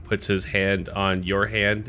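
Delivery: usual speaking voice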